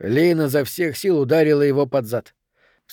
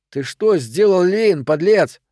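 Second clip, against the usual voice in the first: higher, louder, drawn-out accusation; indignant raised voice; angry confrontation; 5 semitones higher, 4 dB louder, slower than usual. Acted. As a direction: accuse him hotly, stretching the end. Henry confronts Jim outside.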